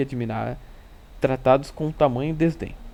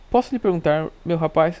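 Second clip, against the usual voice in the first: higher, projected polite question; bland, gentle politeness; 3 semitones higher, 5 dB louder than usual. A narrator's reading. Narrator questions the messenger to expose his friend, blandly polite. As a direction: ask with a touch of exaggerated courtesy. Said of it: "com a mais das brandas vozes".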